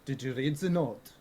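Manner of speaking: put-on German accent. Coach asks student about his note, German accent. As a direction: question asked with a German accent. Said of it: "the German one".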